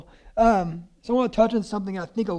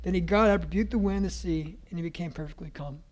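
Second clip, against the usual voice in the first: dramatic scripture reading. Acted. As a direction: read the storm passage like a preacher. Reads Matthew passage aloud.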